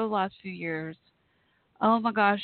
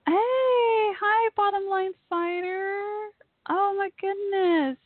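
near tears; 9 semitones higher than usual. Real, not acted. Host greets long-missed Bottom Line Fighter in chat, near tears. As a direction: choke up with joy, voice lifted high. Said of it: "I'm gonna start crying".

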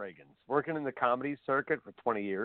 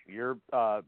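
Gilbert Gottfried impression. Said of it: "I don't do the Gottfried very well".

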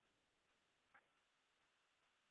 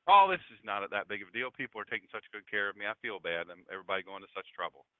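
lower, quickened mock brush-off; modest downplaying; 5 semitones lower, faster than usual. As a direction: wave off the fuss, low and hurried. Acts out friend downplaying his troubles.

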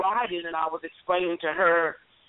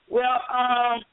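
drawn-out, higher imitation of a hesitating child; hesitant, thinking; 5 semitones higher than usual. Granddaughter catching herself before answering grandma, hesitant. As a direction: stall as if choosing words carefully. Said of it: "now she thinks and says".

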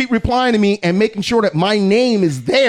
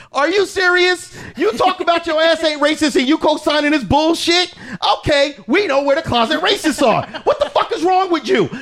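all guns blazing; 5 semitones higher than usual. Retold or imitated. Retelling how he tore into a racist commenter, mock outrage. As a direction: tear into them like you're picking a fight. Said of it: "I come in with all guns blazing".

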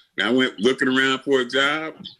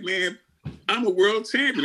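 indignant protest; 8 semitones higher than usual. Retold or imitated. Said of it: "I'm like".

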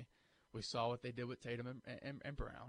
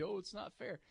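put-on whiny baby; 6 semitones higher than usual. Shown as a demonstration. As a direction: whine it like a spoiled kid. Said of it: "sound like a whiny baby".

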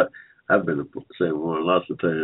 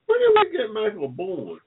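surprised; 13 semitones higher than usual. Real, not acted. Host hearing of Michael Bourne's return, surprised disbelief. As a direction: pitch jumps high in disbelief. Host reacts to trade news.

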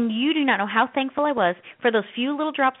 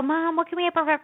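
put-on higher-pitched child asking mom; whining kids; 5 semitones higher than usual. Kids asking mom for breakfast, mock pleading. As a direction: lightly mimic kids pestering mom. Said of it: "the kids go".

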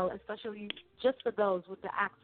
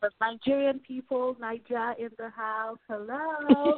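hype shout-out; 3 semitones higher, slower than usual. Pretend. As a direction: cheer your homeland like a radio hype call. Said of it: "shout out your country, girl".

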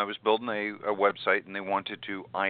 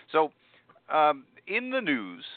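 announcer voice; 8 semitones higher, slower than usual. Pretend. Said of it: "I'll put on my announcer voice".

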